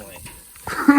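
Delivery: drawn-out booming family; hammed-up shout. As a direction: belt it out like a movie hero. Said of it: "family catchphrase".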